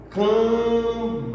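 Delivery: Cambalhota drawn out as cam... ba... lho... ta; syllable by syllable. Shown as a demonstration. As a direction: split Cambalhota into slow, separated syllables. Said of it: "a gente teria quantas sílabas". (Cambalhota bem devagar, sílaba por sílaba)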